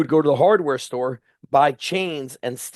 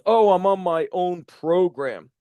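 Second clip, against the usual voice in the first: dragged-out mocking whine, higher and slower; mocking quote; 4 semitones higher than usual. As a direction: draw out the excuse like a spoiled lifter. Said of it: "He's like".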